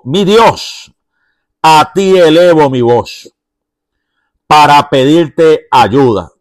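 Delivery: the psalmist in the cave crying out to God. Retold or imitated. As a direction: lift the voice in a desperate prayer. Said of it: "se ve que está elevando su voz".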